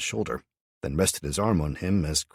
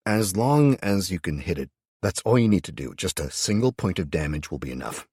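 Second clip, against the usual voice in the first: firm; 3 semitones higher, 5 dB louder than usual. Acted. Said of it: "I said firmly".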